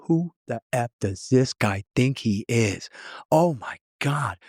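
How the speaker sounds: rising, slowed, stunned exasperation; exasperated disbelief. Retold or imitated. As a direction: imitate someone out of breath and stunned, lightly. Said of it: "he was out of breath, exasperated, just stunned".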